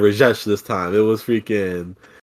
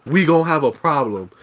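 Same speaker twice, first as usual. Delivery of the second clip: raised, heated threat with a laugh in it; angry rant at Rajesh; 6 semitones higher than usual. Retold or imitated. Customer yelling at the agent Rajesh, mock furious. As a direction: lean on him, half laughing. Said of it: "I'm going off on Rajesh".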